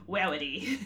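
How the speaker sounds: Wowity, w in place of r; Wowity for Rarity, childish w sound; says w for r. Retold or imitated. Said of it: "She couldn't pronounce her R's".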